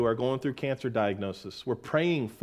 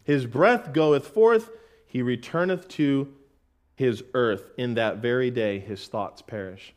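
scripture reading; 3 semitones lower, slower than usual. Shown as a demonstration. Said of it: "reading Psalm".

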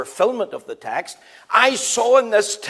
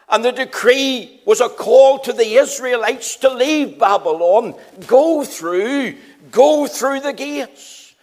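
higher and louder, slowing on "go through the gates"; rising preaching fervor; 4 semitones higher, 6 dB louder than usual. Acted. Preacher urging exiles out of Babylon, fervent and loud. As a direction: proclaim the king's decree with mounting force.

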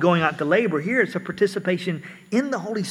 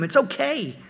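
soft, higher-pitched murmur of reassurance; imitated encouraging whisper; 5 semitones higher, 6 dB quieter than usual. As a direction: softly encourage a hurt child, half-whispered. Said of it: "you whisper in their ear and you encourage".

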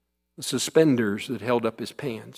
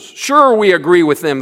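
sly reply; 5 semitones higher, 9 dB louder than usual. A narrator's reading. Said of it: "snickering and looking slyly".

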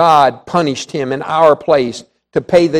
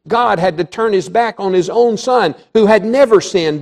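raised pitch, preached with force; emphatic preaching; 5 semitones higher than usual. Real, not acted. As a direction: declare it high and emphatic. Preacher's forceful first statement of it.

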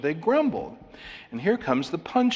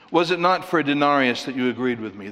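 "not" pressed a bit louder, fast delivery; stress on not; 3 dB louder, faster than usual. Shown as a demonstration. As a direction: lean on "not" in "Was it not for a denarius". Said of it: "That's stressed".

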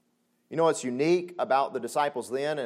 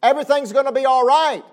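reassuring Jesus; 9 semitones higher, 8 dB louder than usual. Acted. Jesus comforting his disciples, firm reassurance. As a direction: say it like a promise to frightened friends. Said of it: "And he's saying".

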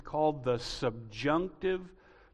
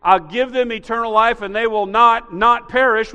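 louder, lean on not, not; literal double negative; 6 semitones higher, 11 dB louder than usual. Shown as a demonstration. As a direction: hammer both nots in "will not, not perish". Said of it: "If we were to translate this literally".

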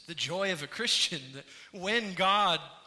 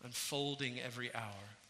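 soft, lower reading of a hymn verse; hymn recited; 5 semitones lower, 8 dB quieter than usual. Acted. Preacher reads a hymn stanza to the congregation, soft recitation. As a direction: recite the stanza gently and softly.

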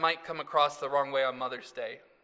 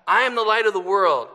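retold cue; 3 semitones higher, 14 dB louder, faster than usual. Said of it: "retelling the cue".

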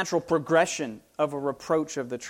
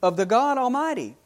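David defying Goliath; 3 semitones higher than usual. Acted. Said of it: "And David said".

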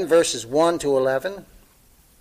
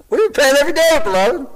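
laughing through the words, fast and higher; 11 semitones higher, 8 dB louder, faster than usual. Real, not acted. Pastor laughing warmly at his congregation, laughing. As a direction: bubble over with laughter.

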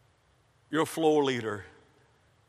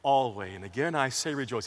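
lower, softer, slowed reading of Paul; soft quoted scripture; 9 semitones lower, 7 dB quieter than usual. Retold or imitated. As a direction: read it hushed and reverent. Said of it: "But yet he says".

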